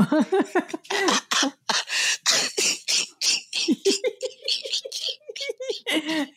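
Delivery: breathless high giggling fit; trying to hold in a giggle; stifled giggles. Real, not acted. Both crack up after break.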